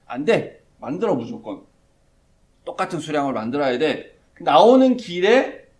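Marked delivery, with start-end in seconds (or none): 0.1-4.2 Pharaoh refusing. Retold or imitated. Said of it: "바로가 거절하죠".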